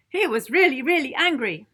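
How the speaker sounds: really and really punched loud; stressed really. A narrator's reading. Narrator to children, punching really loud. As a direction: hit each really hard.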